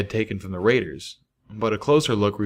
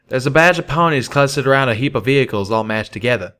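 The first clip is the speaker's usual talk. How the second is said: Calamity voice; 4 semitones higher, 4 dB louder than usual. Acted.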